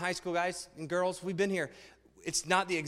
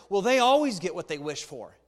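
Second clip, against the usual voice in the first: envious complaint; 6 dB louder than usual. Retold or imitated. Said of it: "We start using this narrative".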